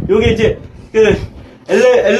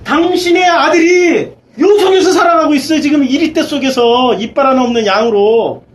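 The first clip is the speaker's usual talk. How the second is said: impassioned lament; 4 semitones higher than usual. Acted. Preacher laments God's child living among wolves, impassioned lament. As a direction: cry it out high, easing down toward the end. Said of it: "당신이 탄식하시는 거죠".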